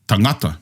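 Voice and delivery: tangata mit Betonung auf der zweiten Silbe NGA; taNGAta, mittlere Silbe betont; Pacific stress on tangata. Shown as a demonstration. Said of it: "majority of the Pacific would pronounce it as".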